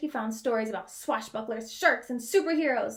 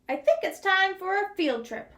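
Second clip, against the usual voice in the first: higher, louder announcement; excited Bunny; 6 semitones higher, 4 dB louder than usual. Acted. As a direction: announce the plan with glee. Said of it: "said Bunny".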